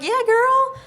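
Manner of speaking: high, loud enthusiastic yes; imitated cheery agreement; friendly player's reply. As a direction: mimic her, upbeat and high.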